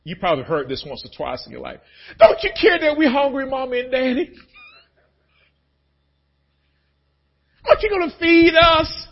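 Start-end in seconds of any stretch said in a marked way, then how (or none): 2.2-9.1 put-on whiny kids. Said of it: "folks that are parents".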